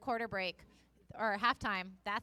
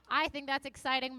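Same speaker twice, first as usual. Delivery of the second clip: a bit more upbeat, lifted; more enthusiastic; 2 semitones higher than usual. Shown as a demonstration. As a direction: give it some energy this time. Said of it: "it's a very low energy morning".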